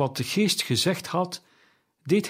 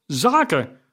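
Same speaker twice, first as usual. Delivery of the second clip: loud, higher outburst of Zaken; ghost's outcry; 3 semitones higher, 5 dB louder than usual. A narrator's reading. Ghost of Jacob crying out at Scrooge, louder and higher. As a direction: fling the word out in anguish. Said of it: "riep het spook uit".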